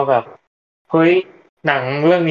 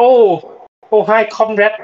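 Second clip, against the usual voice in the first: mock Russian accent; 6 semitones higher, 3 dB louder, much slower than usual. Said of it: "พูดเป็นสำเนียง".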